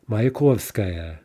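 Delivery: Mayakovskaya spelled out slowly, syllable by syllable; careful slow Mayakovskaya; slow clear pronunciation. Shown as a demonstration. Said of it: "Mayakovsky station will be".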